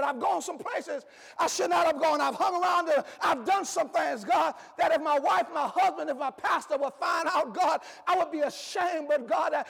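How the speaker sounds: begging prayer. Acted. Doctor Roberts's prayer as the preacher voices it, pleading. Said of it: "Doctor Roberts ... was asking for".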